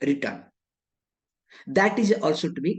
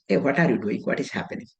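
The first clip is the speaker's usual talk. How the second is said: objecting questioner; 3 semitones higher than usual. Acted. Student challenging the teacher over switching from sannyasa to tyaga, mildly objecting. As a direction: protest mildly as a confused student, with a laugh near the end. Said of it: "question may arise".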